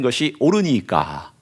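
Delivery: slow, even reading with a falling close; solemn reading. Shown as a demonstration. Preacher reading the verse's last word to the congregation, slow and solemn. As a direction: let 옳으니까 fall slowly as scripture. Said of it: "뭐라고 하나님께 대드냐면".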